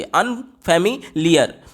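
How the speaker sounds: "अनफेमिलियर" slowly split as अन, फेमि, लियर; three separate beats. Shown as a demonstration. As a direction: stop briefly between the three chunks of "अनफेमिलियर". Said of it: "तो ये तीन झटके लग रहे हैं".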